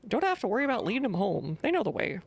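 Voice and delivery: put-on grumpy old farmer. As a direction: warn strangers off your land. Voices the farmer NPC.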